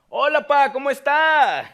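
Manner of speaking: high, loud, bright hello; cheerful greeting. Acted. Son answering his father's phone call, cheerful. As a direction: greet your father warmly and eagerly.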